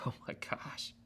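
hushed "oh my gosh", then incredulous; retold uneasy disbelief with a small laugh; doubtful laugh. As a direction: breathe out the dismay, then protest mildly. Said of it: "having that first laugh of Sarah".

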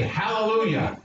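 leading a call. Shown as a demonstration.

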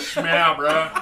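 laughing. Real, not acted. Mocking a funny surname.

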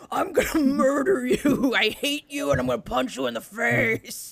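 mock crying kid threat; a touch of teary kid rage; angry kid. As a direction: imitate a furious little brother. Brother voiced in a fight.

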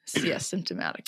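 soft breathy whisper. Real, not acted. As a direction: whisper it under your breath. Whispered aside.

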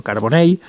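Carbonell ending in a y glide; final ll as y. Shown as a demonstration. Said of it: "como una L o como una Y".

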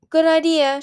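loud, high call; calling after someone. A narrator's reading. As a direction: call it out to someone walking away. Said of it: "she called after him".

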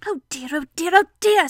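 fretting to oneself, rising to a loud last cry; anxious little lament, building; worried Piglet. Acted. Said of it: "said Piglet to himself".

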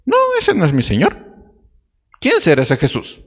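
a frightened man swearing he doesn't know him; Peter denying Jesus. Retold or imitated. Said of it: "cuando Pedro mintió".

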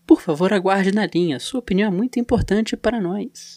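recorded hold message voice; like an automated phone line; phone menu voice. Pretend. Mock hold message while waiting.

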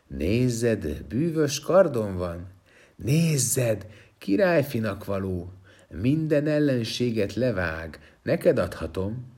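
lightly voiced sweet luring; coaxing. Stone men lure the prince with a magic sword, mild coaxing. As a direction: tempt him gently with the gifts. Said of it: "csalogatni kezdték".

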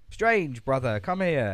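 Mordo. Retold or imitated. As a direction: call out to a brother in a hammed-up welcome. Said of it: "Then Mordo's like".

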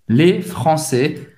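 FRANÇAIS slowly, ending on open è, no S. Shown as a demonstration. Teacher spelling out the plural, open è in FRANÇAIS. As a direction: open the last vowel of FRANÇAIS. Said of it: "tem o som do E aberto".

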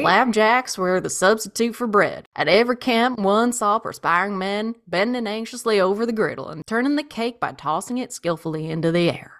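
lightly voiced old-timey newsman; old-timey man voice. Shown as a demonstration. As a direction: read it like an old newscaster. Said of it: "I'm doing, what's his face? Dan Rather".

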